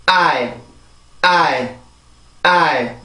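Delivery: "I" as one falling beat, the diphthong "eye"; stressed vowel only. Shown as a demonstration. Teacher drilling rhythm, stressed vowel I alone. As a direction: give I alone as the big beat of island. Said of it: "다시 한번 읽어볼게요".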